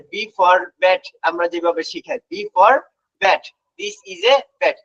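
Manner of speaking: letter name "B", then "bat" as a whole word; conventional recitation. Shown as a demonstration. Teacher showing how we usually teach, reciting "B for bat". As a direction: recite "B for bat" the old classroom way. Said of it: "conventional পদ্ধতি".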